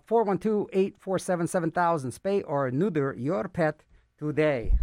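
projected PSA sign-off; announcer read. Acted. Radio host gives listeners the Animal Friends number, announcer read. Reads phone number and slogan.

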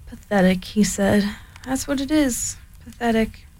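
lightly voiced gloomy donkey; a hint of a despondent Eeyore. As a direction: mope it out like a sad old donkey.

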